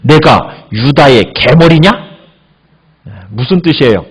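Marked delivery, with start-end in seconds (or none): 0.0-1.9 indignant. Retold or imitated. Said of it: "분하게 여기면서 이렇게 얘기해요".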